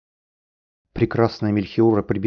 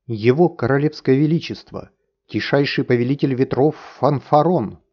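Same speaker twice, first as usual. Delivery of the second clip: loud herald call, pitch raised; booming announcement; 5 semitones higher, 4 dB louder than usual. A narrator's reading. Herald announcing the king to the hall, booming. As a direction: proclaim the king's title to the whole hall. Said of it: "громогласно объявил".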